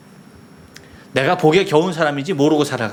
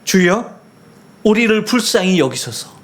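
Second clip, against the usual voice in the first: a mild, raised cry for mercy, higher pitched; blind man's cry; 5 semitones higher than usual. Retold or imitated. Preacher voicing the blind man crying out to Jesus, mild raised plea. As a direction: call out to the Lord, pleading but held back. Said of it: "하면서 소리를 지릅니다".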